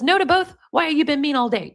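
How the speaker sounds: high-pitched, acted incredulity; lightly acted affronted girlfriend; mock indignant disbelief. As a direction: repeat the refusal in mock disbelief. Acts out girlfriend's reaction to refusal.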